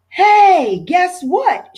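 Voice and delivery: high, loud, bursting with news; excited shout. A narrator's reading. Little brother bursting in to tell Stanley the news, excited shout. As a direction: call out the big news, high and bright. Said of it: "shouted Arthur".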